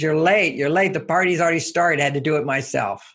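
retold wife, annoyed at her late husband; upset wife. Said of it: "She says".

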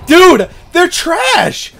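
gloating drawl. Real, not acted. Gloating after kills.

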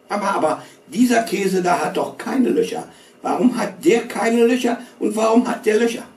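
put-on high, whiny little boy pestering; whiny boy's voice. A narrator's reading. Little boy whining to his mother at dinner. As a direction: whine it up high like a nagging child.

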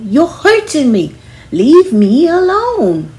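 high, loud, slow yelled plea; shouting. Shown as a demonstration. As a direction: yell it so the whole hall turns. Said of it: "You can yell".

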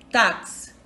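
"táxi" stressed on opening "tá"; stress on first syllable. Shown as a demonstration. Teacher giving a paroxytone example, "táxi" stressed on "tá". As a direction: hit the "tá" of "táxi", let "xi" drop. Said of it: "A sílaba tônica".

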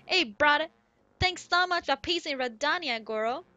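put-on lightly accented game-character voice; chatty Goron, put-on accent; Goron villager. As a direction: read it as a friendly Goron villager.

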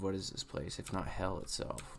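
a hushed second reading; reread quietly. Shown as a demonstration. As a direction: say it again under your breath, pensively. Rereads the same line softer.

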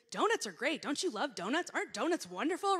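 loud, bubbly raving; raving about donuts. Retold or imitated. Speaker mimicking herself raving before allergic kid, loud bubbly. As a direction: keep gushing, unable to stop. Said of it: "going on and on".

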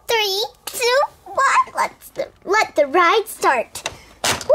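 rising countdown to a whoop; excited countdown. Acted. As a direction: count down, then cheer. Countdown then ride starts.

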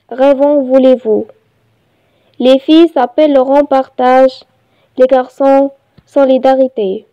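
measured reading with pauses between phrases; poem recitation. Shown as a demonstration. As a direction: recite it line by line, evenly paced. (إلقاء قصيدة بتأنٍّ)

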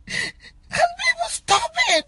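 very high, tearful appeal; crying plea. Real, not acted. Last appeal to people reposting, crying. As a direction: squeeze the plea out through tears.

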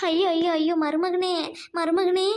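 hammed-up wailing. Mother-in-law wailing for son-in-law, hammed up. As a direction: overact the mourning. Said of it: "நடிப்புக்காரங்க வந்துட்டாளுங்க".

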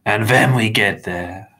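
snapped. A narrator's reading. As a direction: snap back with heavy emphasis. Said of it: "Mister Crepsley snapped".

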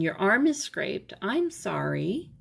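gently loving parent, slow on sorry. Acted. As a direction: comfort the scraped arm tenderly. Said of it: "caring for the wound in a loving way".

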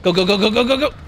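loud frantic urging to run; urgent shouting. Real, not acted. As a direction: yell it while fleeing. Fleeing the killer.

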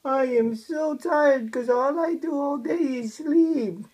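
playful stretched-out complaint; lightly whiny, drawn-out baby talk; speaking for baby. Pretend. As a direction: voice the baby's tired grumble, dragging key words. Parent speaks for the tired baby.

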